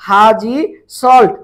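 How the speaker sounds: loud, two beats with a pause between; emphatic dictation. Real, not acted. Teacher giving students the mnemonic to type, loud and emphatic. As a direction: call out the mnemonic word by word.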